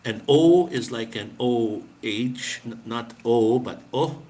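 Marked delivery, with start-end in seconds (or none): 3.6-4.2 "O" pushed out with a puff of air. Shown as a demonstration. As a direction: push the air through "O". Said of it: "like a push, push the air".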